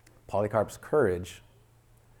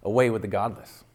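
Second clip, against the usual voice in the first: AWAY lifted with a rising lift, a touch louder; voice lifted to heaven; 4 dB louder than usual. Acted. Polycarp answering the crowd toward heaven, voice lifted. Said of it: "lifted his voice to heaven and said".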